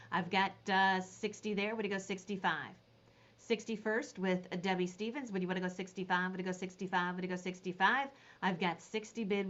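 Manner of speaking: quick, rhythmic auction patter repeating the bid; auctioneer call. Acted. Auctioneer calling bids to the Facebook viewers, quick rhythmic patter.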